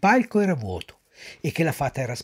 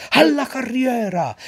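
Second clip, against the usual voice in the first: ring command; 9 semitones higher, 4 dB louder, slower than usual. Acted. Director's next ring command.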